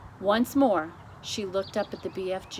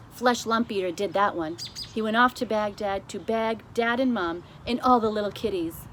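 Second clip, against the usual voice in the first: a lightly voiced friendly giant, louder; the BFG; 2 semitones higher, 6 dB louder than usual. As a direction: explain it like a knowing giant.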